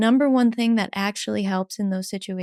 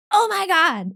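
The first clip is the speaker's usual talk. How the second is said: high mock exasperated oh my God; 9 semitones higher, 3 dB louder than usual. Inner part annoyed at a needy person, high. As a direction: roll your eyes at it.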